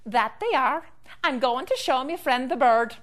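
lightly voiced Irish leprechaun; a hint of leprechaun brogue. Leprechaun showing off new shoes to the tree, light brogue. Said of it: "And the leprechaun said".

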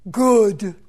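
put-on slow, earthy voice of an old tree; root every sound in the ground; deep rich tree voice. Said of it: "in a deep, rich voice that was truly rooted to the earth".

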